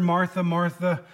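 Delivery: slow, gentle comforting call of her name; "Martha, Martha" drawn out slowly and kindly. Retold or imitated. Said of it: "we see this comforting word".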